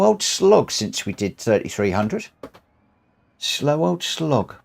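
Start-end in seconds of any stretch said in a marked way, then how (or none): 3.4-4.5 slow drawn-out. Shown as a demonstration. Streamer to viewers savouring his own phrase, slow and drawn out. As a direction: stretch slow old slog out very slowly and a bit higher.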